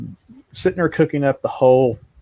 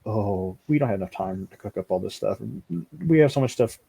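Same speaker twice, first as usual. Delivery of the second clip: overwhelmed complaint; 3 semitones lower, 6 dB quieter than usual. Retold or imitated. Voicing buddy overwhelmed by material.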